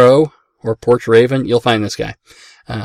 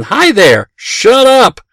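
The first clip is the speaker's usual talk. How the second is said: higher, louder squawking bird voice; annoying mynah bird; 11 semitones higher, 8 dB louder, much slower than usual. Retold or imitated. Rude pet store mynah greets then insults, loud squawk. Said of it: "his pattern was he'd do the bell".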